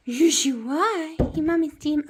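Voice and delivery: dote on the little demon; cooing to pet. Real, not acted.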